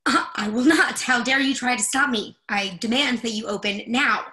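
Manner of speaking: loud, indignant refusal; outraged defiance; indignant anger. Acted. Refusing the door.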